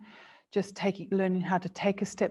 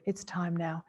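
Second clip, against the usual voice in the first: softer, tender and reassuring; soft gentle voice; 5 dB quieter than usual. Shown as a demonstration. Vet softly telling a grieving owner it's time, tender and soft. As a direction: ease them gently toward letting go. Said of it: "your soft, gentle voice as you just say".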